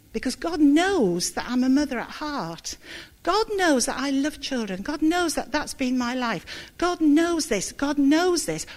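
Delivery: mildly indignant, insistent, hammering on knows; retold anger. Telling the church how she resented God's call, mild indignant insistence. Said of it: "now I'm getting angry".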